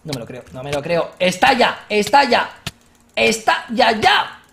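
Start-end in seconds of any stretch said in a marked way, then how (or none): 1.2-4.4 louder, urgent repeated cries; hurry-up excitement; eager loud calls; excited. Real, not acted. Excited at the witch appearing.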